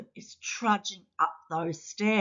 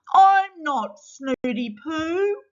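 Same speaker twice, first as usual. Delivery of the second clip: indignant correction; 8 semitones higher, slower than usual. Acted. Snotty Poo corrects his name.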